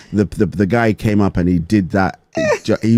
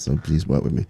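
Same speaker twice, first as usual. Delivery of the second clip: ordinary talk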